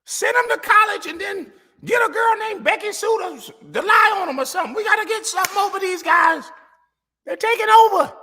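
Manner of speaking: a hammed-up redneck yelling over a quarterback; mock racist fan rant. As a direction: rant like an outraged good old boy.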